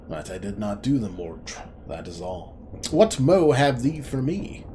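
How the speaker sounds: stern interrogator. Acted. Cutter of the Wood sternly questions the tree brother. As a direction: press the suspect like a solemn woodland judge.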